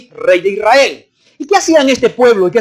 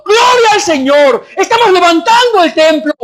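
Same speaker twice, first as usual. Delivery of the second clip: high, shouted cry of praise; acted exultant shout; jubilant praise; 8 semitones higher than usual. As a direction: proclaim it like a rejoicing crowd. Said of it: "estaban cantando y alabando, diciendo".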